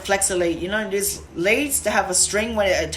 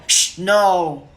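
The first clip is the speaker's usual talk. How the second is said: short, louder shush and firm no; firm shh no; 5 dB louder than usual. Shown as a demonstration. Trainer correcting a puppy, firm louder shh no. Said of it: "we give them a sound correction, we go".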